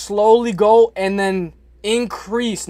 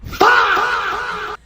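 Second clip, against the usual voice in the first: long, high-pitched catchphrase squeal; high playful scream; 13 semitones higher than usual. Pretend. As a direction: draw out a high yell, breaking into laughter. Shouts catchphrase again, much higher.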